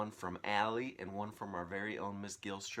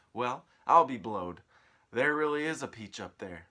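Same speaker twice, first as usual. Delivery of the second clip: loud, amazed exclamation; astonished; 4 semitones higher, 12 dB louder than usual. Acted. Aunt finally spotting the peach, loud surprise. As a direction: blurt it out amazed.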